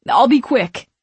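put-on excited drunk fan; eager promise. A narrator's reading. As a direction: reassure them giddily. Drunk fan begs selfie.

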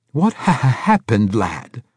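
high, loud anxious stutter; stammering old man. A narrator's reading. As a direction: stutter out the worried question.

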